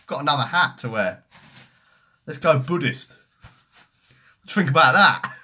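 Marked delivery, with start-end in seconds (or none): 2.3-5.3 laughing. Real, not acted. Puts on a hat, laughing.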